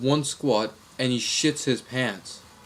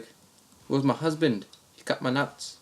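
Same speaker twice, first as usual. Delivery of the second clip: slow put-on Aussie voice; mock Australian confession, drawn out; Australian accent; 2 semitones higher than usual. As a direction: confide as an Australian prank caller. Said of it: "the same Australian accent".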